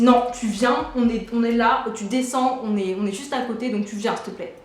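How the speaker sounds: mock authority, ordering her to come down; authoritative tone. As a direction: switch from sweet to bossy, insisting. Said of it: "elle change de ton direct".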